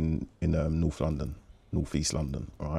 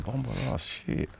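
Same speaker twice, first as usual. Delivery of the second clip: stunned exclamation; 5 semitones higher, 5 dB quieter than usual. Retold or imitated. Watching the noise meter.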